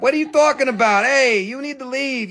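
high-pitched, quick playful telling-off; mock scolding. Seller teases a viewer about social media, mock scolding. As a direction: pretend outrage, shooing them out.

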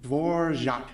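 "Dvorak" said with a zh sound, low; Dvorzhak, the Czech way; Dvořák said the Czech way. Shown as a demonstration. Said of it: "just say R plus J".

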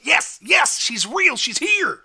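high, loud jubilant cries; overjoyed, bouncing exclamations; ecstatic. Acted. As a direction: shout it as if jumping up and down. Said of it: "ecstatic, like, jumping up and down".

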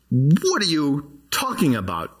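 as if you were Peter, baffled; bewildered question. Pretend. Preacher voicing Peter's bewilderment to the congregation, slow and baffled. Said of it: "put yourself in the mind of".

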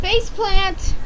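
gleeful call. Real, not acted. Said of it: "that's not a face plant".

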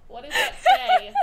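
loud sharp voice. Real, not acted. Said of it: "Stop yelling at me!".

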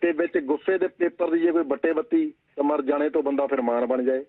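steady recited verse, lines repeated; poem recital. Acted. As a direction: recite the couplet like a poet on stage. (ਕਵਿਤਾ ਪਾਠ ਦੇ ਅੰਦਾਜ਼ ਵਿੱਚ)

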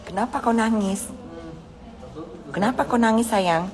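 high, repeated asking why someone cries; high-pitched questioning. Real, not acted. Asking a dear one why they are crying, high-pitched questioning. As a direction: ask it high, with a falling end.

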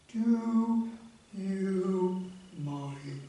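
tortoise scolding the frog sitting on him; grumpy tortoise. Acted. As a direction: grumble as the stone you sat on.

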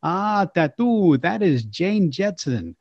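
slow, soft suave host voice; smooth and unhurried; Mister Rocket voice. Acted. Mister Rocket calmly answering Tattoo, slow and suave. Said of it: "I did the voice of Mister Rourke".

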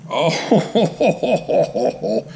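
long chuckling exclamation; gleeful awe. Real, not acted. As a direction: let it spill into a delighted laugh. Gleeful reveal of next knife.

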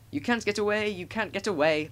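high sing-song taunt, no real laughter; laughing. A narrator's reading. Coaches teasing trapped Thomas, mildly laughing taunt. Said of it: "laughed the coaches".

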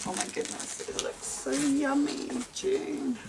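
high-pitched delighted gushing; real excitement, pitch soaring; thrilled. Real, not acted. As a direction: gush in high, amazed delight. Thrilled reaction to gift contents.

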